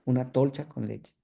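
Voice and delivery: "tolcha" said with a t for the k and an l for the n; a patient's garbled "tolcha" for concha; paraphasia demo. Shown as a demonstration. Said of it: "fonemáticamente confunde el sonido".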